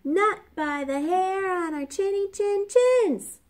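high squeaky little pig voice; squealing pig. A narrator's reading. Little pig refuses the wolf in a high squeal. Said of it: "squealed the three little pigs".

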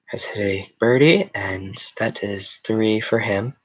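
slow, hushed golf commentary; measured announcer with drawn-out pauses. Pretend. Streamer commentating a made-up golf game, slow golf announcer. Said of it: "Golf announcer voice".

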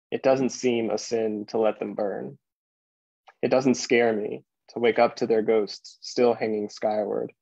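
measured poem recital with pauses between lines; poetry reading. Acted. Poet reading a morning poem to Pittsburgh, measured recital. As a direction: read it as verse, unhurried between phrases. Reads a second poem aloud.

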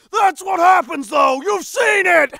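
acted outcry. Actor retaking the protest line, exclaimed. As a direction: cry it out, hitting each phrase.

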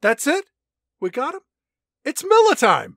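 high, punchy hammed-up one-liner; mock action hero. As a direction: deliver it like a cheesy movie hero.

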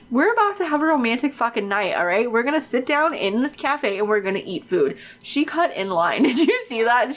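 normal talking voice

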